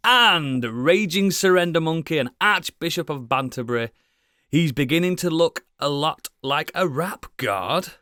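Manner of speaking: grand host introduction. Acted. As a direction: hype him up like a ring announcer. Mock grand introduction of cohost.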